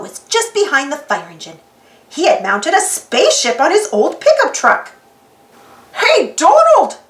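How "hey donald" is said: slow, loud call across a crowd. Acted. A spectator hails Donald's float: loud drawn-out call. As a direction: shout it from the sidewalk. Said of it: "someone called from the crowd".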